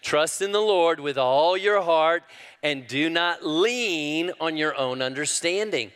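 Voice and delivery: calling it out with the congregation. Real, not acted. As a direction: lead the room in reciting the verse. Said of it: "say it with me".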